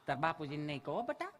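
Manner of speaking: grandma hiding it from father, softly laughing; hushed grandma. Retold or imitated. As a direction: hush it like a conspiring grandmother. Grandma whispering secret.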